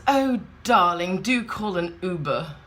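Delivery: lightly mocked grand wife, drawn-out opening; a hint of theatrical exasperation; affected wife. Woman turns to partner wanting a taxi, lightly mocked affectation. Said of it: "turns back to, uh, evil asshole Stephen Fry and says".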